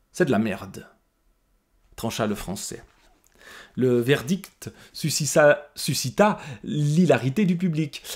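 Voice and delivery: lit l'extrait avec soin, en narrateur; lecture de roman. A narrator's reading. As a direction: raconte la scène posément au spectateur. Lecture d'un extrait de roman. (lecture à voix haute d'un roman)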